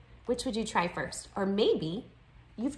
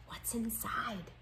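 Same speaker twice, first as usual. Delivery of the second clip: slow, hushed whisper; 2 semitones higher, 10 dB quieter, slower than usual. A narrator's reading. Classmates wondering about the food on the table, whispering. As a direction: whisper it, drawing out the words. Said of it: "heard whispering".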